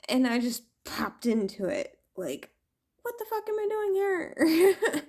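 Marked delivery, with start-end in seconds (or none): 3.0-5.1 high, laughing and near tears; laughing disbelief. Retold or imitated. She popped into the alien's room, laughing disbelief. Her shocked reaction retold.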